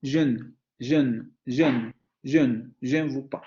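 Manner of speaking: repeated "je ne" with the e of "je" sounded; teacher's French demo, keeping the schwa in "je"; vowel always pronounced. Shown as a demonstration. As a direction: drill "je ne" with a full vowel in "je". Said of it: "siempre se va a pronunciar esa vocal".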